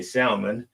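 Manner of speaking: salmon with a sounded L; L pronounced. Shown as a demonstration. His side of the argument with wife, salmon with L. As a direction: say salmon as SAL-mon. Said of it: "because I pronounced that L".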